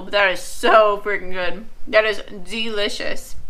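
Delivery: talking through a mouthful of food; mouth full. Real, not acted. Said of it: "I'm trying not to talk with my mouth full".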